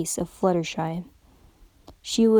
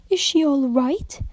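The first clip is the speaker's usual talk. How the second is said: concerned; 5 semitones higher than usual. A narrator's reading. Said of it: "genuinely concerned".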